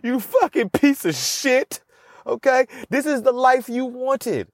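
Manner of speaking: high, strained drill-sergeant berating; bully yourself awake; high mock coach screaming at himself; harsh self-pep talk. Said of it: "this is how I talk to myself".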